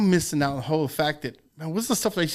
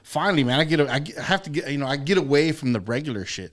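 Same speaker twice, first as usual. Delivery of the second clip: retold excitement. Diner recalls finally getting away from the regular shit, excited. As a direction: relive the excitement, voice lifted. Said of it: "got all excited".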